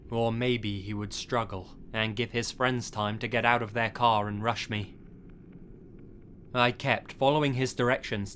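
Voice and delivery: measured, even storytelling read; story narration. A narrator's reading. Narrator telling listeners of a near robbery, measured storytelling. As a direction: read the true tale out steadily. Reads a first-person story.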